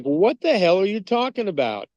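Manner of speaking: rising disbelief, then a high what the hell; exasperated objection. Retold or imitated. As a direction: play a baffled, fed-up churchgoer. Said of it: "going like".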